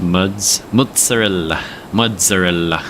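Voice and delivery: "mozzarella" in New York Italian style; New York Italian accent. Shown as a demonstration. Streamer showing how it's pronounced, New York Italian accent. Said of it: "It's pronounced".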